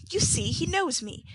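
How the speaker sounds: high, loud plea to the crowd; appealing cry. A narrator's reading. Nancy appeals to the bystanders, high and insistent. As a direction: win over the bystanders. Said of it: "cried Nancy, appealing to the bystanders".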